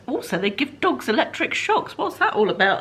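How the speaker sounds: laughing in disbelief. Real, not acted. Vlogger laughs at the shock collar. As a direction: laugh it off, baffled.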